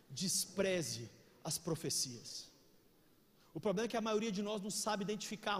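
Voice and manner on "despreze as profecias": slow, low, soft quoting; slow scripture read. Real, not acted. Preacher quoting the Bible to the church, slow. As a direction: stretch each word out.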